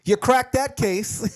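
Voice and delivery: sarcastic slow praise. Retold or imitated. Co-host mockingly slow-clapping the detective. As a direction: drag out the fake praise. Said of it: "sarcastic retort".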